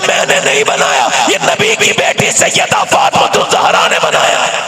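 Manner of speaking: climactic reveal. Acted. Climactic reveal of Fatima's name.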